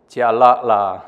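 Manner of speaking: Singlish Hokkien grumble; Hokkien exclamation. Acted. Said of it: "Brain two".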